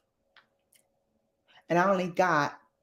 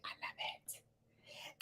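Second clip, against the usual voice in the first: slow, drawn-out whisper; gushing whisper; 27 dB quieter than usual. Real, not acted. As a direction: whisper it slowly, savouring every word. Gushing over a favourite show.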